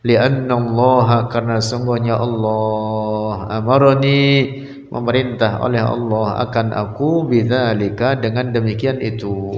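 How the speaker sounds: measured recital, long-held phrase endings; kitab recitation. Acted. Teacher modelling the intention to give for Allah's sake, steady recitation. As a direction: recite each Arabic phrase, then its translation, evenly.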